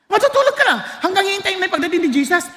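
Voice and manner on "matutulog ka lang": "Matutulog ka lang." repeated high, as if scoffing; mock echo. Shown as a demonstration. The preacher mocking a wrong idea of death as sleep. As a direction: echo the idea back in mild disbelief. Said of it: "Hindi ganun ang ibig sabihin".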